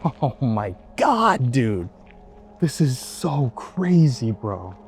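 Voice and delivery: sputtering after a bug in the mouth; coughing it out, startled; just swallowed a bug. Real, not acted. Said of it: "Bug just flew in my mouth".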